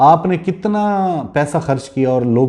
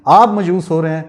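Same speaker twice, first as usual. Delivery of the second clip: raised and pushing, defiant; fired-up tone; 3 semitones higher than usual. Real, not acted. Telling the industrialist he despairs, defiant. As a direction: throw it back at him with conviction. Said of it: "میرے لہجے سے لگ رہا ہوگا".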